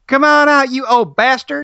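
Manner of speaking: put-on high-pitched southern Atlanta accent. Quoting a film character swearing in a scene: imitating a southern accent. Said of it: "she has, like, a southern accent".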